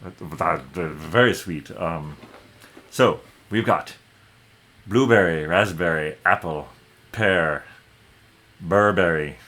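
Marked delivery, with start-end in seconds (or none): 2.9-9.4 innkeeper voice. Acted. Innkeeper lists the wines.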